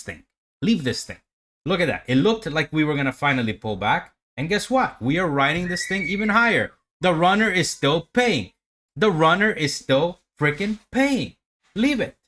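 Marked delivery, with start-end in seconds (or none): 4.4-12.2 rising excitement, pitch climbing higher; hyped up. Real, not acted. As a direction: pump yourself up over the winning trade. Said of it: "Maybe I'm talking like this".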